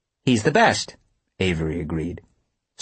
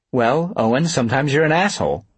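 sweet teasing; 3 semitones higher than usual. Acted. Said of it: "She smiled when she said it, sweetly".

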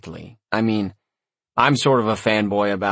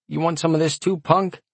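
menacing orc; 8 semitones higher than usual. A narrator's reading. Orc threatening the hero.

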